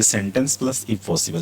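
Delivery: slow, word by word dictation. Shown as a demonstration. Teacher dictates the pattern slowly to the class. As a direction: spell out the pattern slowly for students. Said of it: "teacher dictating sentence pattern".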